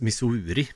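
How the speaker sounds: Missouri with a long u and "-ri" ending; Swedified pronunciation. Real, not acted. Film reviewer settles on a name, Missouri with stretched u. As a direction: say Missouri as "Miss-OO-ree". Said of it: "Vi säger Mis".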